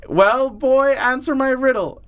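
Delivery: high, demanding storybook troll. Pretend. Troll ordering the boy to answer, mock-imperious. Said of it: "the troll says".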